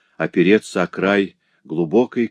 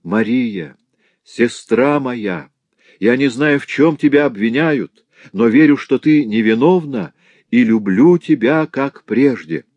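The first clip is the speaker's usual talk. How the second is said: calling out; 5 semitones higher, 5 dB louder than usual. Acted. Clara calls to Marie as she's dragged away, loud cry. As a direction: call back to her across the yard. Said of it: "и крикнула".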